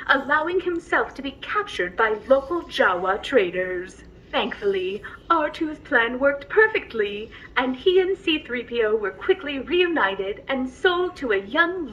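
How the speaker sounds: gentle storyteller voice, unhurried; bedtime story narration. Acted. Droid reading a bedtime story to the passenger, gently.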